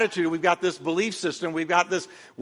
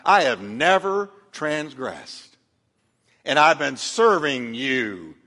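smug slow boast; 3 semitones lower, slower than usual. Acted. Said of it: "in his self-righteous mind".

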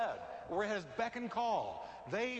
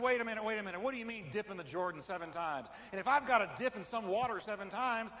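louder, indignant proud general demanding a better river; proud Naaman; 4 dB louder than usual. Retold or imitated. Preacher voicing Naaman protesting the muddy Jordan, louder and indignant. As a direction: protest like a proud man insulted. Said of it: "what I hear in Naaman's voice".

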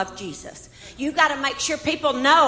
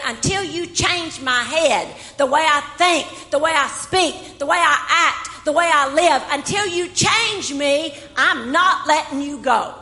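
fervent plea; 4 semitones higher, 4 dB louder than usual. Acted. Jacob's fervent demand, voiced.

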